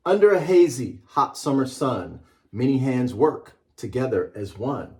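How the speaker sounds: measured storybook read-aloud. Acted. Author reading his book to a class, measured and rhythmic. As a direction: read it like a picture book to children.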